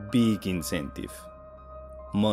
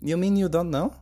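high surprised question; 9 semitones higher, 4 dB louder than usual. Acted. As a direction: sound caught off guard. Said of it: "sounding surprised".

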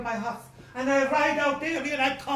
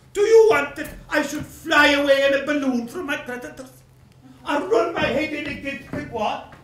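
louder, fed-up outburst; exasperated shout; 6 dB louder than usual. Acted. Creditor ranting at the widow, exasperated shout. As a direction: blast the absurd question out.

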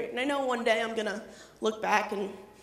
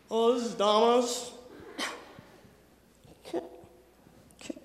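put-on timid child voice. Timid child calling Domino's.

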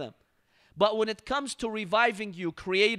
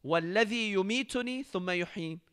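plain recitation; much faster than usual. Shown as a demonstration. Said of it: "But in the following verse".

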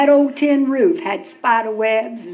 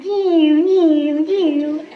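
mud dauber buzzing; 3 semitones higher, much slower than usual. Retold or imitated. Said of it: "there was thousands going".

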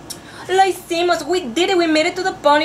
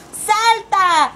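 shouted command; 5 semitones higher, 3 dB louder than usual. Shown as a demonstration. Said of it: "we need to shout".

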